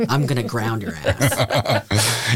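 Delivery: scolding parent. Pretend.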